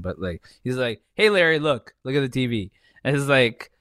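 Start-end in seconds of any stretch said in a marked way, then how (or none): 1.1-2.7 put-on Santino without accent. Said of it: "he doesn't do the accent".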